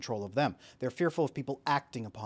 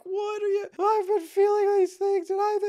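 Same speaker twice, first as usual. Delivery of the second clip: much higher, louder, slow shouted blowup; hammed-up explosion of frustration; angry outburst; 7 dB louder than usual. Anxious employee finally blowing up at the team, mock shout. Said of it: "he finally, like, freaks out".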